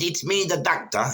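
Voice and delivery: a half-hearted Indian doctor voice; Indian accent. Retold or imitated. Doctor introducing himself through the door in a light Indian accent. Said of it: "I don't know if that sounded Asian".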